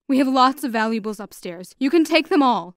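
father begging the robbers to take it all; pleading. Acted. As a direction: offer everything, begging. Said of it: "he pleaded".

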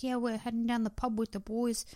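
lightly voiced Essex lad; mock Essex accent, casual chat; Essex dude accent. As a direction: imitate an Essex pub lad. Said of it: "Only Way is Essex type dude".

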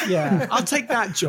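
gleeful laugh through words. Real, not acted. Laughing at being God.

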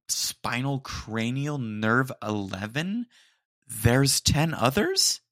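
baffled outburst building to a loud squeak; mock outrage at the jargon; incredulous. Retelling shock at doctor's jargon.

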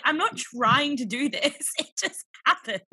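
high, drawn-out mock protest. Defending her accent to boyfriend in quarantine, high-pitched protest.

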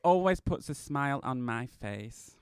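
hint of an apologetic granny; grandma Alice. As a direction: read on as a put-on grandmother. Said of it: "Grandma Alice, she's not got such good eyes".

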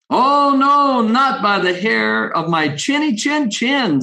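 the brave pig shouting no through the door; third little pig. Acted. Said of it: "said the third little pig".

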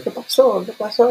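high startled cry of what happened; startled, high-pitched retold panic; alarmed. Panicked self-quote in sex story.

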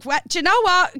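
high flustered exclamation; exasperated. Retold or imitated. Carly retelling her flustered reply to him, high. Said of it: "I was like".

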